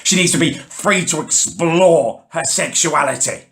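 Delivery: mock-earnest hippie squawk. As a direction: parody their preachy line like a parrot. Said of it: "squawking like a pair of demented bloody parrots".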